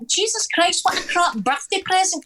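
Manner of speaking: high, incredulous disbelief; exasperated. Retold or imitated. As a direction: throw your hands up at the absurd offer. Exasperated retort to family.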